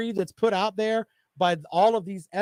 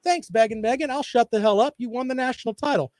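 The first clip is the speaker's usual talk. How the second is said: imitating a meek version of himself, higher and louder; mock meek reply; 5 semitones higher, 4 dB louder than usual. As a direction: play the beaten-down guy giving in. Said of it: "I'll just be like".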